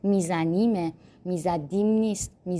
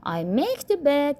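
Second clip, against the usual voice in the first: slow model sentence; 6 semitones higher, much slower than usual. Shown as a demonstration. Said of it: "model repeat".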